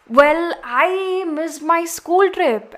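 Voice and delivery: mock whiny kid. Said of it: "kids complain about the whole pandemic and they're like".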